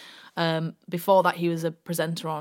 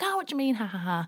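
high teasing laugh-along; mock laughing; 4 semitones higher, faster than usual. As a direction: retell the team laughing it off, pitched up high. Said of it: "we kind of all had a laugh and were like".

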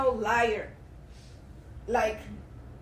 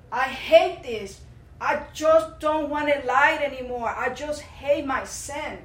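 louder, slow, pained plea to God; anguished prayer; 2 semitones higher, 4 dB louder, slower than usual. Real, not acted. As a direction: cry out your disgust at your own sin. Pleading prayer about her lying.

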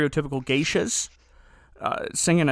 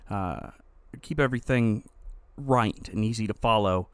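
low, softer recorded pickup; editor's voiceover; 5 semitones lower, 3 dB quieter than usual. Real, not acted. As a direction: read it like a later studio insert. Inserted editor's recorded correction.

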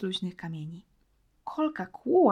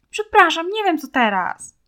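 tearful apology; 9 semitones higher, 10 dB louder than usual. A narrator's reading. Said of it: "błysnęły łzy".

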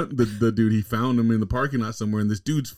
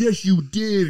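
much higher mocking wife voice; 10 semitones higher, 3 dB louder, slower than usual. Retelling the wife insisting to the black dude, high mock voice. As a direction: squeak it out like the stubborn wife.

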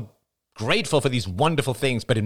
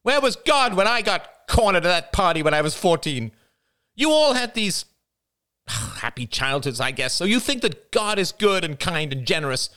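high, bitter, trembling accusation; venomous passion; 11 semitones higher than usual. A narrator's reading. Jada confronting the family, bitter high outburst. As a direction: let the hurt curdle into venom. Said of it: "Her voice trembled with venomous passion".

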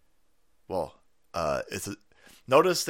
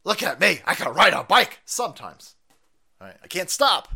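put-on high, loud shouting old man; hammed-up yelling to prove he's fit; mock Biden; 7 semitones higher, 7 dB louder than usual. Biden yelling at his critics to watch him, hammed-up and high. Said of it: "He go".

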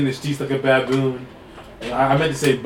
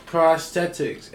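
drawn-out repeat; 3 semitones higher, much slower than usual. Pretend. Same word repeated in usual loudness.

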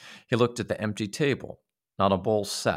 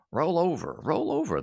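high shout, much higher, pushy; 9 semitones higher than usual. Acted. Little man shouting at the boys in bed, high. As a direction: bark the order at the boys. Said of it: "the little man was shouting".

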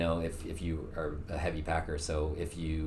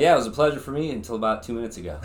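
laughing; 4 semitones higher, 6 dB louder, faster than usual. Real, not acted. Joking after challenge.

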